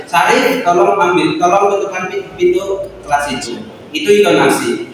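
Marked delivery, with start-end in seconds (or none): 0.1-3.6 mild gentle teacher request. Shown as a demonstration. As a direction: ask kindly, like a patient teacher. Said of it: "contoh bahasa halus".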